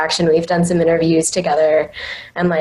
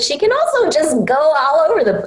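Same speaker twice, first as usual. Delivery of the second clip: all over the place; 9 semitones higher than usual. Shown as a demonstration. Explaining her anime character's vocal range, voice swooping up high. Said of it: "go through all of the levels of my voice".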